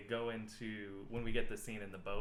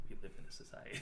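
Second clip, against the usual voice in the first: whispered meme line; 5 dB quieter, faster than usual. Retold or imitated. Quoting the meme mock-solemnly.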